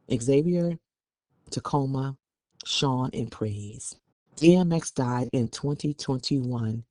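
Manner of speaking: measured news-report delivery; news read. Acted. Co-host reading a report on the family dispute, news read. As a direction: read the article out evenly.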